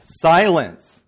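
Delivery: loud, high booming shout; wizard shout. Retold or imitated. Wizard silencing Dorothy, a loud booming shout. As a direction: thunder the word out. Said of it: "The wizard says".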